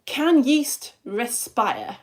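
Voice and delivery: slow, stretched question. Shown as a demonstration. Teacher asking the class, slow and stretched. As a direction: draw the question out slowly. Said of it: "Don't know why I'm saying it like that".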